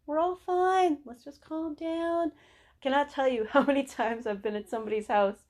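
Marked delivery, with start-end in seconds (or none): 0.1-2.3 relieved reassurance. Acted. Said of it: "They're like".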